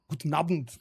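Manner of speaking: Guten Abend in a German accent; a light German accent on Guten Abend; German greeting. Shown as a demonstration. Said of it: "What do you think of my German accent?".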